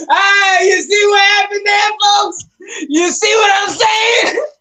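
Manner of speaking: high, loud, gleeful vindication; loud crowing. Real, not acted. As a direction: shout it through laughter to the audience. Crowing after the disputed imitation.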